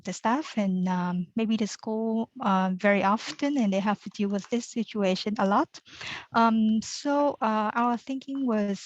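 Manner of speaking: through a face mask. Real, not acted. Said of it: "forgive my mask because".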